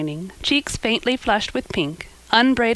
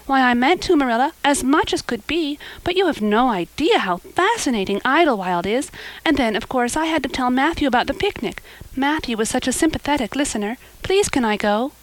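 lightly voiced girl, a little higher; eager girl; 6 semitones higher than usual. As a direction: explain earnestly and plead. Anne makes excuses.

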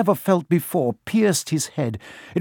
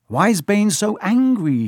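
put-on puzzled boy; 7 semitones higher than usual.

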